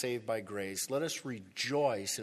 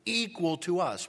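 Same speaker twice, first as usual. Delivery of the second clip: high, loud, outraged; indignant complaint; 8 semitones higher, 7 dB louder than usual. Retold or imitated. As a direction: spit out the injustice. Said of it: "What are they saying?".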